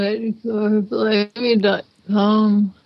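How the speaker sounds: distant, muffled, far from the mic; through a wall. Real, not acted. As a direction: sounds like from the next room. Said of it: "you sound like you're in the other room".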